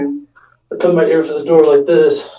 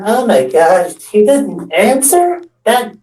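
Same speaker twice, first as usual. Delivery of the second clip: high, slow scandalized drawl; mock outrage; 5 semitones higher, slower than usual. Friends mocking Vidra for not answering, scandalized. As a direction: act shocked and disgusted. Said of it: "All of everybody went".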